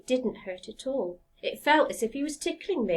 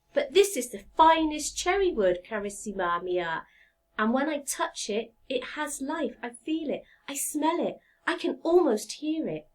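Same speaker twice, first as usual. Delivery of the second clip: pleading woodcarver. Acted.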